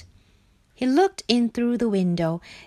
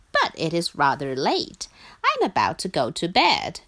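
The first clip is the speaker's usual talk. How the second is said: a hint of a lower, unhurried Duck; calm Duck; 3 semitones lower than usual. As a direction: lightly voice a composed host. Duck voiced as calm host.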